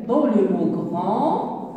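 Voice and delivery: slow, stress "grand" to show its hard g; slow pointed emphasis. Shown as a demonstration. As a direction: lean slowly on "grand". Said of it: "teacher points out the sound".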